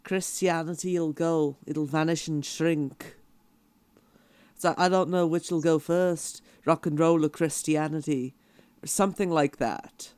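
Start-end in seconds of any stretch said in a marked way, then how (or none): 0.0-3.2 put-on slow, lightly done Liverpool accent; a hint of a 1960s band's Liverpool style, drawn out; a singer's Liverpool accent. Recalling the rest of the quote, light Liverpool accent. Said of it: "doing basically an impression of what I heard". 4.8-8.3 put-on lightly done Liverpool accent; a touch of film-style 1960s Liverpool; a singer's Liverpool accent. Finishing the singer's remembered quote, light Liverpool accent. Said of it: "doing basically an impression of what I heard".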